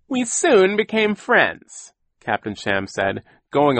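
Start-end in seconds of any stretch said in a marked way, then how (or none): 0.1-1.9 slow, high, drawn-out put-on sentiment; mournful voice. A narrator's reading. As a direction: lament slowly and theatrically. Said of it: "began to speak in a mournful voice".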